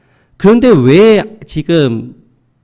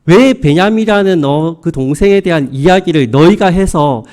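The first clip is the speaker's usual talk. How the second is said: reproachful father. Acted. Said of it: "라면서 이 자녀들을 원망하고".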